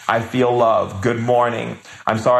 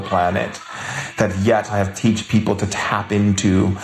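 lyrical mystic speech about hidden worlds; reverent, wonder-filled preaching on magic; mystical sermon. Acted. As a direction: speak as a spellbound shaman revealing secrets. Shaman's mystical monologue.

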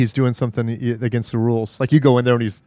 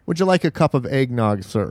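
polite servant voice. Retold or imitated. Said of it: "if you would have went".

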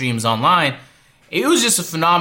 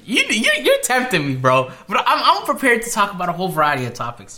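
laughing; 5 semitones higher than usual. Real, not acted. Laughs while answering.

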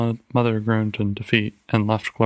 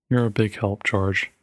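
frigid. Acted. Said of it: "was the frigid answer".

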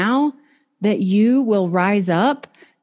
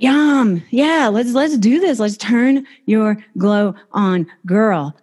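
excited cheer; 2 semitones higher, slower than usual. Real, not acted. Hype cheer to viewers.

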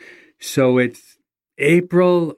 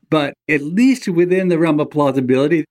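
laughing friend; 4 semitones higher than usual. Retold or imitated. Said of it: "he laughs out loud and he says".

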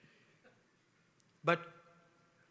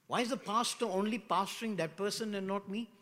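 jealous complaint; 5 semitones higher, 7 dB louder than usual. Acted. Member complaining about the pastor.

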